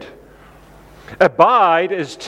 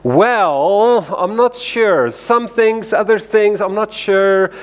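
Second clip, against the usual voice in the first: unsure answer; 4 semitones higher, slower than usual. Retold or imitated. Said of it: "all too often the answer is".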